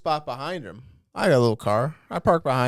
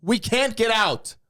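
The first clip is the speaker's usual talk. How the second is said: put-on high, slow, drawn-out old lady voice; mock old lady; 9 semitones higher, 3 dB louder, slower than usual. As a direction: imitate the pushy old driver, higher and dragged out. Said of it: "She goes".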